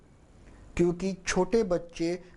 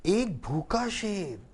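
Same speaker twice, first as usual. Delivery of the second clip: slow, drawn-out एक भूखा शेर, sounding feeble; slow, tired storyteller voice; weak with hunger; slower than usual. Shown as a demonstration. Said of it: "भूख से कमजोर है".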